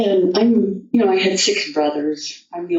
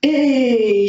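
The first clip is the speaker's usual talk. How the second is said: indignant Toad; 8 semitones higher than usual. Acted. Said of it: "finally says".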